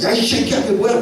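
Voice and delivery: sudden acted-out scolding; imitated angry mother. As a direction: lay into the child like a furious mum. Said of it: "막 화를 내시니까".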